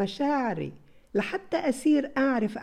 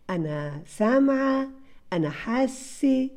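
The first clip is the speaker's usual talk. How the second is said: dramatic voice; 3 semitones higher, slower than usual. Shown as a demonstration. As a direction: build the drama word by word. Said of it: "بصوت حلو، فيه دراما". (صوت درامي بطيء يتصاعد)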